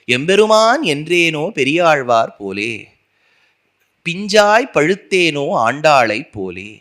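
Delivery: measured, deliberate listing of each saying; slow devotional litany, every line given its own weight; slow litany recitation. Acted. Continues the litany.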